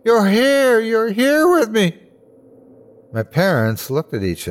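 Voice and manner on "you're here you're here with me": high, overwhelmed cry of joy; joyful crying. A narrator's reading. Boy weeps to see his parents, high and overjoyed. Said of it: "they were tears of absolute joy".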